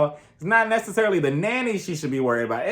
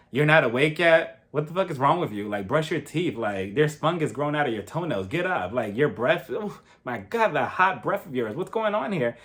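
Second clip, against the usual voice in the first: mock rude husband, slightly lower voice; 4 semitones lower than usual. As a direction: lightly imitate a husband nagging his wife awake. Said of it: "he's just being so rude".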